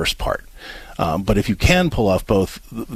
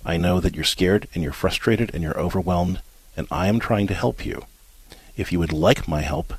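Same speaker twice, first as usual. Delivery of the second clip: gentle, even, softer delivery to an upset mother; calm compassionate script; 3 semitones lower, 4 dB quieter than usual. Shown as a demonstration. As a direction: say it kindly but firmly, like a rehearsed line. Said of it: "I want you to look at her and say".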